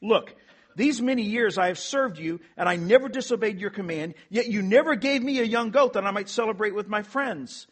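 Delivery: elder brother's indignant protest; resentful elder brother. Acted. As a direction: play the bitter older son demanding his due. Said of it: "Listen to the words of the elder brother".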